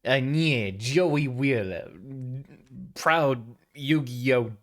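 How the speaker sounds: mock cartoon Brooklyn drawl; a hammed-up Brooklyn tough guy; cartoony Brooklyn. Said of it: "the only joke I have is the cartoony".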